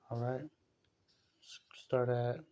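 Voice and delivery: slow unvoiced whisper aside. Real, not acted. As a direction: breathe it under the breath while turning pages. Aside while finding the verse.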